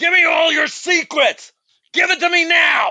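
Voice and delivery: all-out booming yelling, very high-pitched. Trying out a short scene at the microphone after warning about the volume, loud as fuck. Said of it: "I am going to be loud as fuck".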